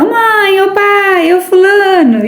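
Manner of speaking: high-pitched drawn-out household call; mock calling out. Someone interrupting a meditation to summon mum or dad, mock calling out. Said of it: "vem alguém e grita".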